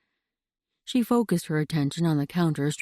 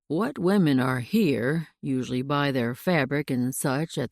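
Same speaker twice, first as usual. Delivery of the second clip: lightly lowered frontier sheriff; a touch deeper, unhurried lawman; 3 semitones lower than usual. Acted. Sheriff's dialogue.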